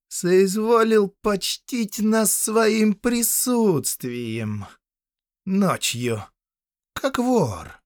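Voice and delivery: high, slow, sneering drawl of a spoiled count; unpleasant voice. Acted. Count mocking the bound prisoner, slow high sneer. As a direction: savour the name with contempt. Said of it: "Голос его был ещё неприятнее взгляда".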